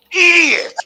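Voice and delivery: high, loud scream of an insult; furious yell. Real, not acted. Caller screaming insults at Gordon, furious yell. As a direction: scream it out at him.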